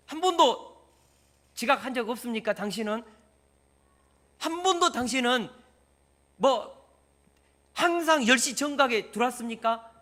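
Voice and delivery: loud, high indignant questioning; indignant grilling. Acted. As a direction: demand it like an outraged boss. 따지듯 지각을 추궁하는 역할. (화가 나서 따지듯 높고 크게)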